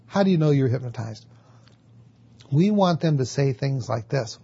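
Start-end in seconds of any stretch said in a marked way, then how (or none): 0.0-1.2 fast, level, doubting challenge; skeptic. Retold or imitated. Skeptic challenging the client, fast and doubting. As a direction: press the question like you don't buy it. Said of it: "the skeptic is gonna go".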